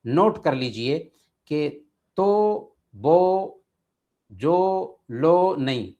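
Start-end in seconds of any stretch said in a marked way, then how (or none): 1.5-5.9 तो बो जो लो said with o as mistakes; wrong o vowels. Shown as a demonstration. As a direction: list the wrong o forms. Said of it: "गलत". (गलत ओ वाले शब्द)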